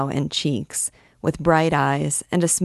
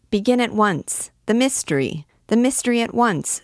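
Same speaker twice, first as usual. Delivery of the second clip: crowd screaming; 6 semitones higher than usual. Acted. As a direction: demand it all at once, impatient. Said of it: "screamed the people".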